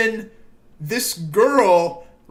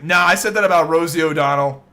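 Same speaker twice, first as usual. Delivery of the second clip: quick, louder offhand brush-off; mock Trump retort; 3 semitones lower, 5 dB louder, faster than usual. Friend mimics Trump brushing off the moderator, quick and louder. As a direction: toss it off like a smug debater.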